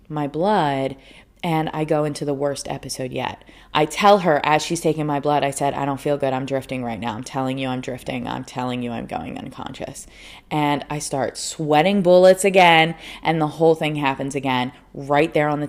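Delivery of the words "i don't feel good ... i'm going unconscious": softer, lower, fading as she loses consciousness; weak, fading murmur; fading away. Retold or imitated. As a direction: let it drain away. Retelling fading out.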